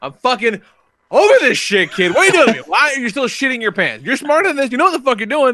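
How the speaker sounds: fed-up, furious yelling, pitched high. Recounting the car ride home with the kid, retelling yelling at him. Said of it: "just yelling at each other".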